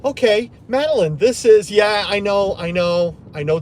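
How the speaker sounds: mock know-it-all Madeleine.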